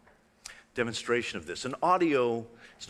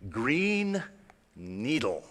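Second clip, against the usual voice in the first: robotic voice; much slower than usual. Retold or imitated. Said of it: "the same voice, you're going to hear the voice say".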